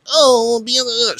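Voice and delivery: mock fan gushing. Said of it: "someone's gonna be like".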